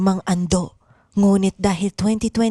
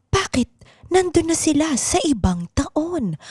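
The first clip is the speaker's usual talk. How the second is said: ordinary delivery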